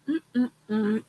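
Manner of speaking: hummed yawn; stifled yawning hum. Real, not acted. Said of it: "I have the yawns today".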